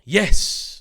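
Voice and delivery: mildly metrosexual. Acted. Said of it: "mildly metrosexual manner that he has".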